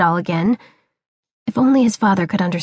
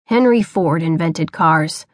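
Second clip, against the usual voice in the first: lower, slow hint of a stern father; retort; 4 semitones lower, slower than usual. Father corrects his son, low and slow. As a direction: put him right with a low, slow retort. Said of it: "he retorted".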